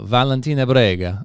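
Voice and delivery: name said with a put-on Italian lilt; amateur Italian accent attempt; mock Italian accent. Shown as a demonstration. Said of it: "you're not Italian".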